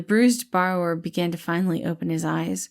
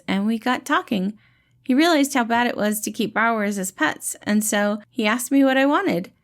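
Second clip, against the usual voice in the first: higher, louder friendly reassuring voice; gentle dad-like rescuer, pitched up and bright; cheerful caretaker Patton; 5 semitones higher, 3 dB louder than usual. Acted. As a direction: play the kind, upbeat helper calming a scared kid. Patton tells his story.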